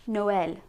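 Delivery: Noël as "no-el"; French Noël in two syllables. Shown as a demonstration. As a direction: say both vowels in Noël, joined smoothly. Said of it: "make them two different syllables".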